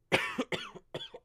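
harsh sick cough; hacking cough. Real, not acted. Sick, coughing after signing off.

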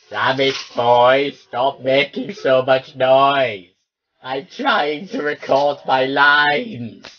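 real exasperated telling-off; annoyed scolding. Real, not acted. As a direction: tell the dog off, drawn out and cross. Scolding the noisy dog.

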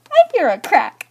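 loud, high dismay; distraught. Retold or imitated. Vlogger reliving her phone breaking, distraught. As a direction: raise the voice in rising panic.

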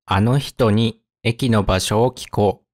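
measured, with small gaps between phrases. Shown as a demonstration. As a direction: read it carefully for learners. Example read slowly, then at speed.

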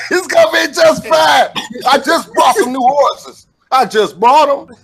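hammed-up wail about the horses; mock whining.

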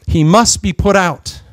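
slow, loud and firm; stern declaration. Retold or imitated. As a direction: declare it as a verdict, slowly. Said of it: "They said".

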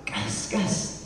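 low, hushed retold aside; taking them aside. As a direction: quietly get their attention, voice dropped low. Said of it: "he pulled us all aside and he goes".

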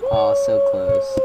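squeaky disappointment. Real, not acted. Narrowly misses.

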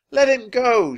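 high, loud yell; indignant high-pitched shout; angry demand. A narrator's reading. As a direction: demand a friend's release fiercely. Annie attacks the biggest pirate.

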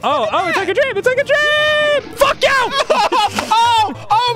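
mock dreamy rapture. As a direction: gush sarcastically, then snap. Mocking game's dreamy level.

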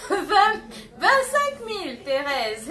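high, loud, drawn-out shout; loud auctioneer's whoop; excited bid call. Real, not acted. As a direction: stretch the figure out in a thrilled holler. Calling out a jump in bids.

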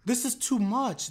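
high, drawn-out protest; overwhelmed, slow and high-pitched; exasperated disbelief. Real, not acted. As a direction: stretch it out high, scandalized. Exasperated reaction to the scene.

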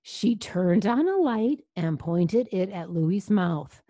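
put-on lively read-aloud to a child; story narration. A narrator's reading. Reading the dentist scene to a child, animated narration. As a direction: project it like a storyteller. Reads story louder than asides.

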